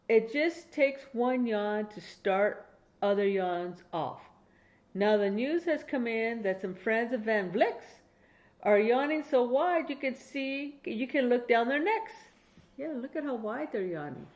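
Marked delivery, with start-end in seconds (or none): 0.7-12.1 steady, clear bedtime story reading, a bit slower; reading to a child. Acted. Grandma reading a Dr Seuss bedtime book to her grandchild, clear storytelling. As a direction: read it out like a bedtime book for a little one.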